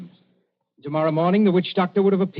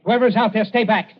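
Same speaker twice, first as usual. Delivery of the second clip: loud, higher warning called into the dark; 6 semitones higher, 4 dB louder than usual. Acted. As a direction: bark it at whoever lurks outside. Warning unseen intruders outside.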